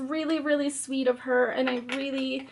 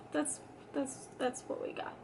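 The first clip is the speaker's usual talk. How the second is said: whispered; 13 dB quieter than usual. Real, not acted. Muttering at bad drawing.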